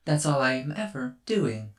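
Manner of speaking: lightly voiced little robot; calm curious robot; robot child voice.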